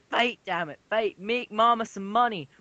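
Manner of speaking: high mock stage mom urging her doll; pushy owner. Owner urging her doll to fight, hammed-up. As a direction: egg the doll on like a greedy mama.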